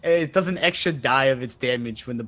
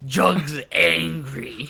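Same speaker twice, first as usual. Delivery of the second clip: slow, dopey monster grunt; dopey brute voice; 3 semitones higher, much slower than usual. Acted. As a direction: growl it like a dim bugbear. Player voicing his bugbear character.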